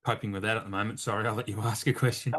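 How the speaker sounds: talking while chewing gum; words around a fresh piece of gum. Real, not acted. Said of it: "I just put gum in my mouth".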